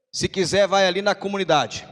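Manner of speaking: loud, brusque brush-off; rude dismissive reply. Retold or imitated. Fisherman telling a stranger to go buy fish, loud and brusque. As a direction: send him away without warmth. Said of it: "Desse jeito".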